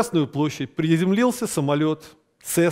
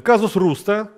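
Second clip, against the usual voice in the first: dictating. Shown as a demonstration. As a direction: spell it out for note-taking. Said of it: "значит, записываем".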